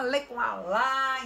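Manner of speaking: lightly chanted letters, then syllable; spelling recitation. Retold or imitated. Teacher showing old spelling method, mild recitation. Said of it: "onde dizia assim".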